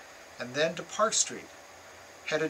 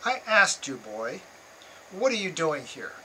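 accusatory; 3 semitones higher than usual. Retold or imitated. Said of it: "accusatory tone".

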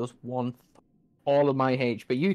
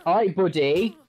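louder, rising taunt at the boss; 3 semitones higher, 7 dB louder than usual. Shown as a demonstration. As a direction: push it out as a cocky challenge.

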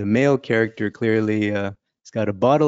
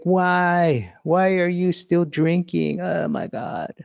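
high, slow distressed plea; begging him to stop drinking; high pleading voice, close to tears; pleading wife; 7 semitones higher, slower than usual. Retold or imitated. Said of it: "She's like".

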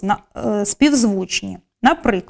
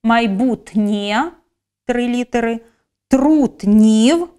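slow syllable demo; slower than usual. Shown as a demonstration. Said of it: "чотири літери".

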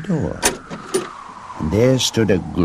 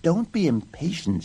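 mild, gentle chiding; 9 semitones higher than usual. A narrator's reading. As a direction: soothe gently, without raising your volume. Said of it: "said Snow White gently".

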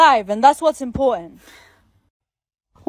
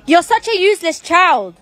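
higher-pitched, exasperated mother; harsh scolding; 4 semitones higher than usual. Acted. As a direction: berate the child in frustration. Mother berates her child.

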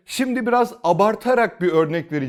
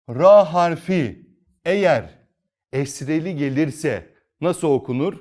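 ordinary delivery

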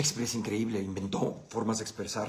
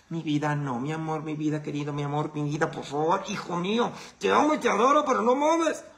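sweet pleading building to a high, loud outburst; pleading parent snapping; 6 semitones higher, 5 dB louder than usual. Retold or imitated. Parent begging the kid nicely then blowing up, pleading to shout. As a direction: coax gently, then crack and yell.

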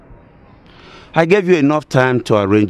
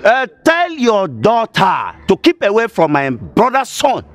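higher, indignant demand; angry warning; 4 semitones higher than usual. Acted. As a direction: warn them off with heated force. Angry family confrontation.

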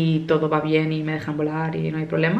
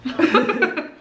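witch laugh; 12 semitones higher than usual. Pretend. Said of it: "mi risa de bruja".

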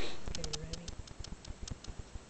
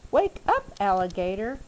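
wake-up call. Acted. Crocodile calling sleepy alligator.

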